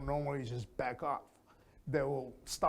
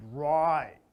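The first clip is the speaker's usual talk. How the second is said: interested; 4 dB louder than usual. Shown as a demonstration. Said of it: "you go up and high".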